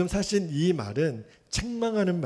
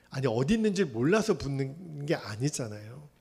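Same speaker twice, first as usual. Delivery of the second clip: ordinary delivery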